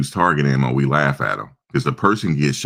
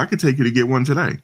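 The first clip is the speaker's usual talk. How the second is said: eager offer; 9 semitones higher, faster than usual. Retold or imitated. Friend eagerly offers to take him.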